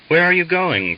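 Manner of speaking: a sudden high surprised question. A narrator's reading. Valyat surprised as Misha turns back, high question. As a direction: caught off guard as his friend turns. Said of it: "Valyat asked in surprise".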